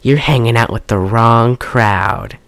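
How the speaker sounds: slow, mock-sultry movie line; lightly acted come-on, slowly; mock seductive. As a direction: imitate a flirty film heroine, drawn out. Acting out flirtatious film dialogue.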